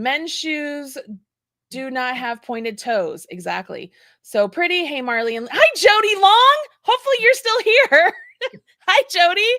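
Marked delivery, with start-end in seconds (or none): 5.4-9.5 excited greeting. Real, not acted.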